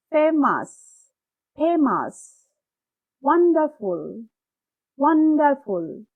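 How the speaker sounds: ফেমাস with ফে punched, ওয়ান্ডারফুল with ওয়ান punched; stressed first syllables. Shown as a demonstration. Teacher drilling words for students, first syllables stressed. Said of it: "stress সহকারে পড়ব".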